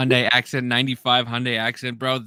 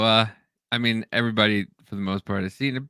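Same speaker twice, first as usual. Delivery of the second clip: usual speaking voice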